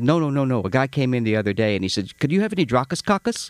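mild imitation of the Greek clerk; lightly voiced deli clerk. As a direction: retell the clerk's tale in his voice. Retold clerk's story.

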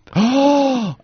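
high delighted gasp; excited gasp. Real, not acted. Hearing cohost got trip pictures back, excited gasp. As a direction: gasp with sudden glee.

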